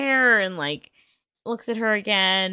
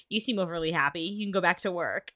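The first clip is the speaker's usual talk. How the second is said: dry, mock-sarcastic line; faster than usual. Podcaster imitating Kunsam's mild sarcasm toward Mon. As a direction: toss it off sarcastically, lightly. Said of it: "like, sarcastically".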